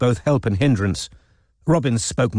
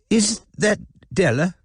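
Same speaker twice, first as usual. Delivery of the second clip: put-on an old lady answering, pitched higher; a puzzled old woman on the line; elderly woman on phone; 10 semitones higher than usual. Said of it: "elderly woman answering the phone".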